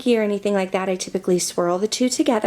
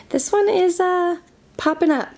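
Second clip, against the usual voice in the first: laughing; 9 semitones higher than usual. Real, not acted. Laughing at a blush popping up.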